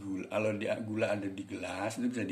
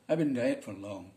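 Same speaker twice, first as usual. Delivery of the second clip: slow, linked-up Westerner English; imitated Westerner accent; 3 semitones higher than usual. Shown as a demonstration. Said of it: "ke orang bule gitu". (tiruan logat bule)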